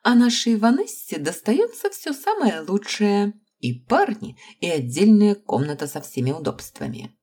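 voiced smirk, starting high; lightly mocking. A narrator's reading. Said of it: "усмехнулась Джоанна".

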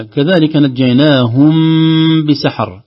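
slow, careful م before بسحر; hidden m demo. Shown as a demonstration. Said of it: "نفس النطق". (إخفاء شفوي في نجيناهم بسحر)

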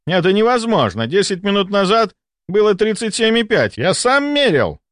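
high, insistent protest; agitated disbelief. Acted. Doctor disputes the thermometer, in agitated disbelief. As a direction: protest what cannot be true.

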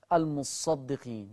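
"المصدقين" with a light sad: al-musadiqin; "المصدقين" read light, sad not doubled. Shown as a demonstration. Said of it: "ألاقي الناس وهي بتقرأ يقول إيه".

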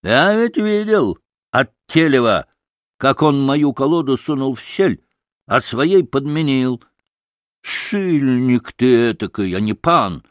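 rough, scornful accuser; accusing innkeeper. Acted. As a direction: denounce him, dragging out the insult.

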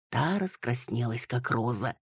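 plain reading voice

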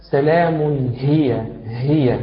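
سلام هي said slowly, isolating the ه of هي; careful slow demonstration of ه in هي; demonstrated ha. Shown as a demonstration. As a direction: stretch out سلام هي to show the ه. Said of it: "آه، قولك".

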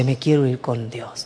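put-on soft whispered child's words; retold whisper. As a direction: whisper it, barely voiced. Dying child's quiet wish retold.

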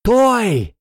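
sharp high starting shout. A narrator's reading. Teacher shouts the race start, high and loud. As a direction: bark the start signal. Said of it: "крикнул Тор Скрепин".

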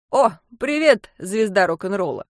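loud, teasing hello; cheery greeting. Acted. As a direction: hail a friend with a jab. Chip greets narrator jokingly.

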